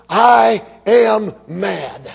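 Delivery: drawn-out, emphatic tape title; slow shouted title. Retold or imitated. Announcing the sermon title, slow and shouted. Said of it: "the title of the tape was".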